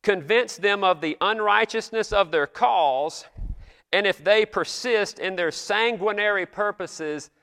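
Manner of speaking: slow, lifted prayer reading; solemn old prayer. Retold or imitated. Pastor reading the Congress prayer, slow and solemn. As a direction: roll the old words out slowly. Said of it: "I sure do like to say it".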